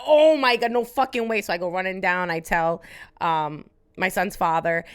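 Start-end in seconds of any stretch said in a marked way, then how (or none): 0.1-1.4 blurted, loud disbelief; shocked excitement. Retold or imitated. Telling of the positive test, shocked excitement. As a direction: cry out in stunned excitement.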